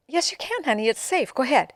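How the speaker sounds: high, coaxing reassurance; coaxing grandma. Retold or imitated. Grandma coaxing granddaughter at the sink, high and gentle. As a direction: gently urge her on. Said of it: "And I said".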